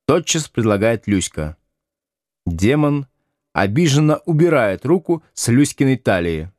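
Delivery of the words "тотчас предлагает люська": plain reading voice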